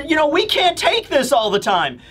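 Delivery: high, exasperated scolding; Nami, fuming. Acted. Nami scolds Luffy like a mother with a child, exasperated. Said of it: "So Nami is just fuming".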